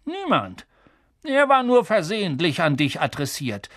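brusque dismissal; curt. Acted. Uncle fobbing off the boy, curt. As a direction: brush the question off. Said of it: "kurz angebunden".

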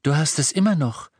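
etwas höher ausrufen. A narrator's reading. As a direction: aufgeregt dazwischenrufen. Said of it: "rief Hermine". (leicht erhobene Stimme)

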